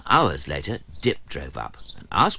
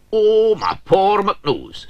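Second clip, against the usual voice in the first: high, slow, louder lament; hammed-up slow wail; woeful McTappets; 13 semitones higher, 8 dB louder, much slower than usual. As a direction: moan over your nose. McTappets suffers the smell.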